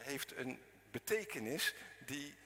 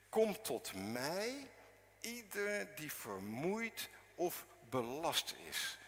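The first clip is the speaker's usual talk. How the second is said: slow solemn quote; 2 semitones higher, slower than usual. Acted. Preacher voices Jesus' invitation.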